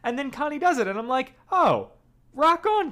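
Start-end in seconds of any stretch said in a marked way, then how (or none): 1.5-2.9 high, loud cheer of approval; delighted, punchy reaction; impressed cheer. Retold or imitated. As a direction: cheer her on, pitched up and louder. Acting out delighted reaction to Connie.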